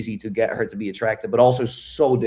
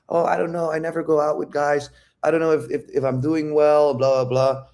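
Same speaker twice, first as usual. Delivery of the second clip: lightly mocked self-doubt, higher-pitched; imitating nervousness; 4 semitones higher than usual. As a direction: act out her unsure rambling. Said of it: "she's getting nervous".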